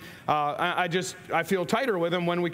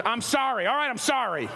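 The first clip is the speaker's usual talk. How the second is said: grudging sorry; 3 semitones higher than usual. Shown as a demonstration. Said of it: "That doesn't sound like you're sorry at all".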